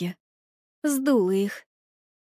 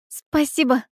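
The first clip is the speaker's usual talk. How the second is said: sincere thanks; 4 semitones higher than usual. A narrator's reading. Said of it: "искренне поблагодарила Алиса".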